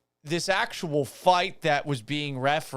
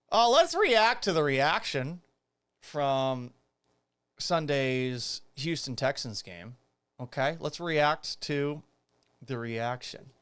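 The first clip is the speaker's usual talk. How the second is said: cigarette in mouth. Real, not acted. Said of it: "I can't talk with this, this fake cigarette in my mouth".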